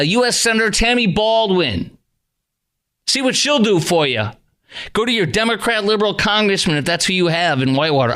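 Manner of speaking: outraged rant. Real, not acted. Ranting continues, telling listeners off.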